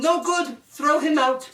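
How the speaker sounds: shrieked high, loud command; yelling princess. Acted. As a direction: yell it like a furious queen. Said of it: "the princess yelled".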